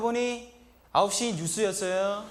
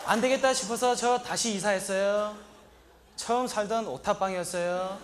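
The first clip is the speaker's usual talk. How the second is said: normal talking voice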